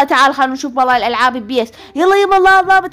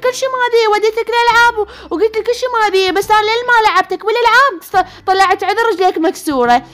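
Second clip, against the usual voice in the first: higher, exasperated telling-off; mother scolds her fibbing son, exasperated and higher; scolding mother; 5 semitones higher than usual. Acted. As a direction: catch the little liar out.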